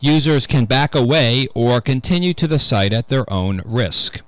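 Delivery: measured radio news-reader delivery. Real, not acted. Host reading a security news item to radio listeners, news read. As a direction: read the tech story out deliberately, phrase by phrase.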